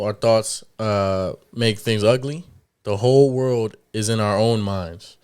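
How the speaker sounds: slow, deliberate quote reading; measured read-aloud, phrase by phrase. Real, not acted. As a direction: read it out slowly so everyone can follow. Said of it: "read it a little slow".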